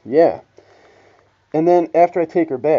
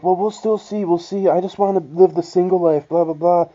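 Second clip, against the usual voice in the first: higher, breezy mock girlfriend; 5 semitones higher than usual. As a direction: parody her carefree brush-off. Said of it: "she's like".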